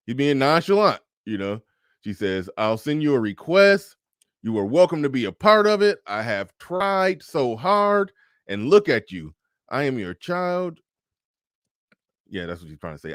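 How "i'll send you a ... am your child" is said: mocking daughter.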